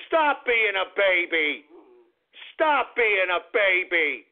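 slow, drawn-out reproach; weary scolding. Real, not acted. Host telling his dog to stop whining, drawn-out. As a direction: spread each word out in exasperation.

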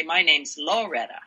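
Loretta with a full, stressed "Lo"; stress on first syllable. Shown as a demonstration. Showing how another Loretta might say it, first syllable of "Loretta" stressed. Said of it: "might emphasize a difference".

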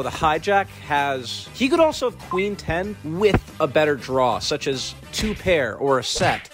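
raspy chain-smoker voice; rough, husky throat after a cold; smoker's rasp. Real, not acted. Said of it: "I sound like a serial chain smoker".

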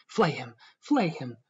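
a touch of frenzy on each cry; mild frenzied shriek. A narrator's reading. Elena entreating after the crocodile's meal, mildly shrieking. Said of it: "kept shrieking out the same phrase".

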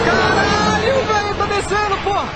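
high, urgent outburst; excited. Real, not acted. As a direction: blurt it out, thrilled. Excited as it moves down.

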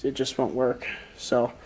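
muffled behind a respirator mask. Real, not acted. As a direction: speak through a face mask. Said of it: "If I sound a little muffled".

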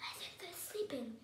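lightly whispered aside; whispering. A narrator's reading. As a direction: keep it down near sleepers. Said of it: "she whispered".

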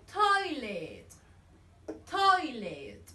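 toilet said slowly with a falling tune; model word for repeating. Shown as a demonstration. Teacher drills toilet for children, slow and clear. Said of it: "Vamos, repeat".

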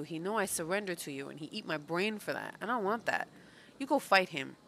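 a hint of a pit dweller bowing out; lightly voiced pit creature. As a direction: lightly act out a self-protective underling. Reads game character's dialogue aloud.

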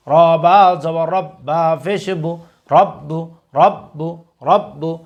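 teacher's recitation, letter by letter; slow spelling drill. Shown as a demonstration. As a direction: spell each letter slowly, then say the word thrice. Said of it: "আপনারা আমাদের সাথে repeat করার চেষ্টা করুন". (ধীরে বানান করে তিনবার উচ্চারণ)

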